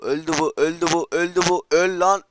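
repeated call climbing in pitch and volume; excited kill call. Real, not acted. Gamer finishing off an enemy, excited and rising. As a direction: build to a high shout.

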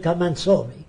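"come and saw me" in lightly mimicked Arab-accented English; imitated broken English. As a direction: imitate a foreign speaker saying "saw" for "see". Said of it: "Means come and see me".

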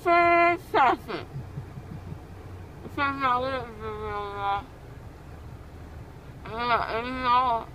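mumbling through a numb mouth. Real, not acted. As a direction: lips numb after the dentist. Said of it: "How's your mouth feel?".

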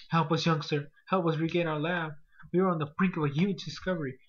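loud, pleading NPC read; hammed-up desperate scientist. Reading scientist NPC dialogue.

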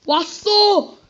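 scared. Real, not acted. Jumpscare in horror game.

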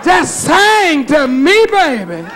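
playful imitation of a lovestruck woman; mock swooning woman. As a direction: coo like a smitten woman. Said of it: "you lap all that up".

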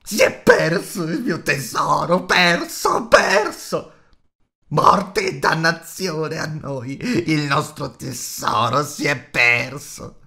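loud, high creature wail, drawn out; gemiti e imprecazioni. A narrator's reading. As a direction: curse and wail over a lost treasure. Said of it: "Gollum imprecava e gemeva". (lamento straziato e urlato di creatura)

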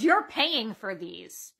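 low, drawn-out demand; mock stern demand. Customer telling the worker to pay up, mock stern. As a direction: imitate a customer demanding payment, low and very slow.

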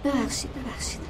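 very soft, subdued sorry, sorry; a quiet, defeated apology; hushed apology. Acted. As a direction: murmur ببخشید، ببخشید barely aloud, giving in. Apology after heated quarrel.

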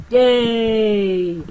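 high, loud squeal of glee; a burst of childish delight; mock cheer. Gamer cheering his creatures, loud high yay.

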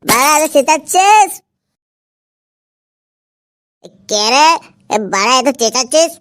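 put-on a touch of drunken rambling; lightly acted drunk man answering back. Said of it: "তুই আবার মাল খেয়ে এসেছিস?".

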